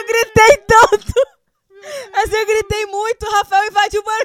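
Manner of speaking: reliving the scare loudly; excited retelling. Real, not acted.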